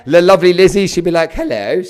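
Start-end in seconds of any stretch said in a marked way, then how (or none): 1.3-1.8 a hint of posh English; lightly put-on posh hello; posh English accent. Coach imitating Lizzie answering the phone, posh accent. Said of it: "Lizzie's very posh".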